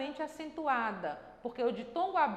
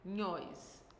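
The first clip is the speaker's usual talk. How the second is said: syllable by syllable; 6 semitones lower, 6 dB quieter than usual. Shown as a demonstration. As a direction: split into syllables with long pauses, soft and low. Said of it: "Vamos separar a sílaba".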